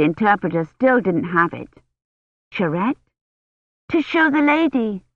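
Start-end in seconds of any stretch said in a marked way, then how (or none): 2.5-5.0 put-on much higher, eager little girl; a little girl rushing in to show her toy; child voice. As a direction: voice a small excited child. Little girl Agnes speaks.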